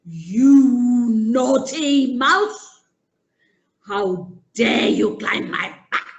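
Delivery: slow, loud lion voice, scolding; a big lion telling off a pest; lion scolding the mouse who climbed him. Acted.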